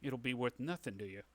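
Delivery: lightly voiced crooked businessman; a touch of underworld boss; shady dealmaker. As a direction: coax them like a sly fixer. Game master voices shady dealmaker.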